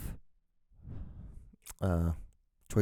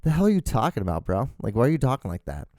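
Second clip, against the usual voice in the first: baffled Honduran family; 5 semitones higher, faster than usual. Retold or imitated. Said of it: "they're like".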